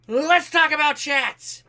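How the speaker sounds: big, high, slow showman call; excited announcement. Real, not acted. Streamer hyping his chat to start the Q and A, loud excited call. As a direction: launch the segment like a game show host.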